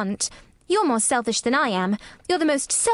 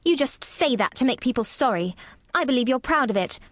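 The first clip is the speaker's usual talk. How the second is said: put-on higher, scolding child voice; sour; 5 semitones higher than usual. A narrator's reading. Girl accuses sick boy of faking, sourly. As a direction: unsympathetic little girl telling him off. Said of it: "said Mary sourly".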